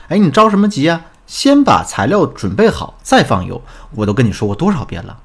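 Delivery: acted wifely nagging, starting high; exasperated scolding. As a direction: scold him as if retelling the quarrel. Acted scolding of husband over cooking. (模仿妻子不耐烦地数落)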